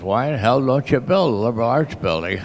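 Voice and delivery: a hint of a gruff old man. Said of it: "in his gruff old voice".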